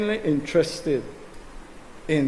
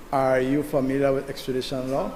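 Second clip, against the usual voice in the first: measured repeat of "Are you familiar with extradition law", rising on "law". Real, not acted. Same question repeated more slowly.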